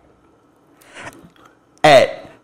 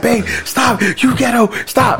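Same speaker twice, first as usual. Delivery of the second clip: put-on quoting girlfriend; 8 semitones higher, slower than usual. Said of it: "She's like".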